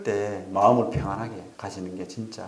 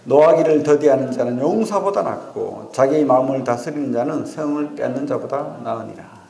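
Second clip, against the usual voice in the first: louder, measured reading of the verse in unison; scripture read aloud; 2 semitones higher, 4 dB louder than usual. Acted. Pastor leading the congregation in reading Proverbs aloud, louder and measured. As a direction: read 노하기를 더디하는 자는 firmly, as a congregation. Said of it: "같이 읽겠습니다. 시작".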